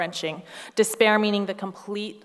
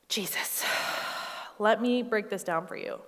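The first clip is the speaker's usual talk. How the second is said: condescending; 6 dB quieter than usual. Pretend. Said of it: "so frustrating when somebody does not understand".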